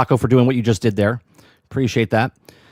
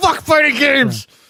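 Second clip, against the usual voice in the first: higher put-on angry outburst; 14 semitones higher than usual. Imitating Aku after calling him angry: imitating Aku angry. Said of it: "he's angry. He's like".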